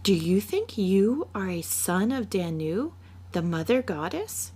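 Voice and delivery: put-on a child in awe of her big papa; little girl. Child questions father.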